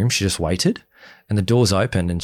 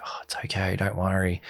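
soothing; 8 dB quieter than usual. Retold or imitated. Others comforting crying woman.

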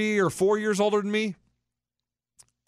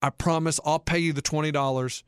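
reassuring; 6 semitones lower than usual. Acted. Older friend reassuring, hand on shoulder.

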